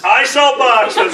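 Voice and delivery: slow, one word at a time; staccato. Shown as a demonstration. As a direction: space out each word of "I Sell Boxes". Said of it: "that's the pronunciation".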